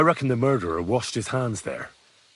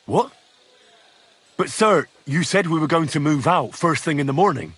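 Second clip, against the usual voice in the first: louder, higher-pitched objection; dismayed protest; 4 semitones higher, 3 dB louder than usual. Acted. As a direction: protest to a superior in disbelief. Subordinate protests change of plan.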